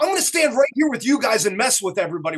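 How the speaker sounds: put-on touch of a New York accent. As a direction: do a retold New Yorker's line with a hint of the accent. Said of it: "he has that New York accent".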